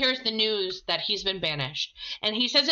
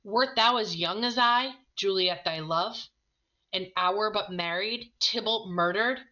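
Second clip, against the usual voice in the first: dramatic reading. Acted. Romeo pleading with the friar, impassioned reading. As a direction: let Romeo's despair build through the speech. Reads Romeo's despairing speech.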